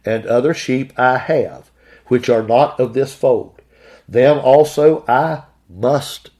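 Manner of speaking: slow, deliberate reading of the verse; unhurried pulpit scripture reading. Acted. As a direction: read it out slowly as holy words.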